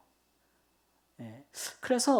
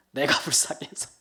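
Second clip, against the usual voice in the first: laughing; 3 semitones lower than usual. Real, not acted. Repeats line with a laugh.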